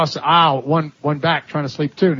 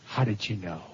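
awed hush; 10 semitones lower, 14 dB quieter than usual. Retold or imitated. Stranger stunned she knew name.

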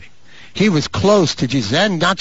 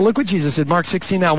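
ordinary talk, nothing marked

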